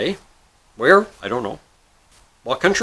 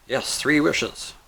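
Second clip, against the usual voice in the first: patient confirmation; 4 dB quieter, much slower than usual. Acted.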